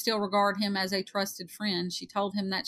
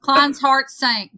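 dramatic slow narration; 5 semitones higher, 11 dB louder, much slower than usual. Acted. Dramatic reading of detective story.

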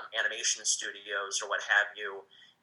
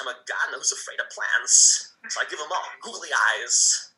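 light Walken voice, a bit louder; Christopher Walken impression; 4 dB louder than usual. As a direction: voice actor shows his Walken impression to hosts, lightly voiced. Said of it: "a Christopher Walken voice".

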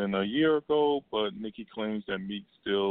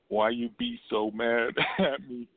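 laughing through the quote; 3 semitones higher than usual. Real, not acted. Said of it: "I can't stop laughing".

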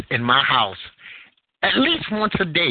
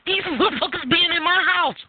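retold angry outburst; 13 semitones higher than usual. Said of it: "I was like".

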